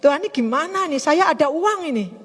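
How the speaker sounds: lightly whined appeal to God; re-enacted troubled prayer. Speaker asking God about the money held back, re-enacted troubled prayer. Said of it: "Saya begini".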